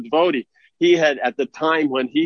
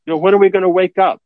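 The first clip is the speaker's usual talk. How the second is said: exasperated plea; 7 semitones higher, 5 dB louder, faster than usual. Real, not acted.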